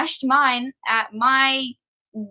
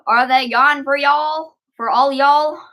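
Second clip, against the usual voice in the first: reading chat in a light put-on Texan drawl; a mild mock Texan accent; 4 dB louder than usual. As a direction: play it like a Texan cowboy. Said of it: "I changed my accent and I love it".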